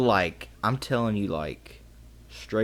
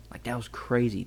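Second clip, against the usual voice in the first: whisper; 3 semitones higher, 6 dB quieter than usual. Retold or imitated. Retelling the scare to Jared.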